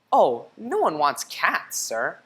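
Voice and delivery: slow, lightly voiced shop lady; drawn-out, a hint of a dismissive shopkeeper; pet store lady.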